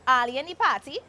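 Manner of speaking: Trini lilt, di pati for the party; Trinidadian saying. Shown as a demonstration. Host teaching a Trinidad saying in Trini accent. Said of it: "In Trinidad, they say".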